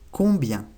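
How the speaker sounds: combien with nasal vowels; French combien. Shown as a demonstration. Teacher models combien for students. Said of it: "Se dice combien".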